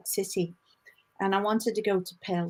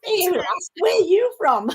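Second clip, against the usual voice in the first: higher, louder Scouse greeting; Scouse accent; 10 semitones higher, 9 dB louder than usual. Pretend. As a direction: call out like a Liverpudlian.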